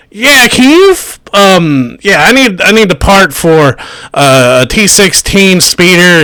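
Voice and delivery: high, squeaky little Jawa; a small creature asking for a part. Acted. Jawa speaking at the counter.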